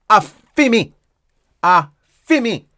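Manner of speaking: "A, fi me" with a beat before "fi me"; "A" then "fi me" run together; rhythm of "a fi me". Shown as a demonstration. Teacher drilling the phrase's rhythm, rhythmic Patois. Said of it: "It's all about the rhythm".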